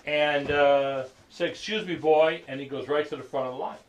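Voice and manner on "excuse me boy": loud, slightly raised imperious call; mock a bossy man pushing through; imitated brusque command; domineering interruption. White man pushing into line.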